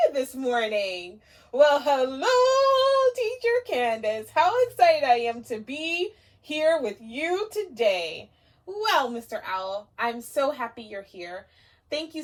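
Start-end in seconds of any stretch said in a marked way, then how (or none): 1.5-8.3 high, loud, eager little owl; puppet owl. Acted. Owl puppet greeting the teacher, high and eager. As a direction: greet like a thrilled puppet friend.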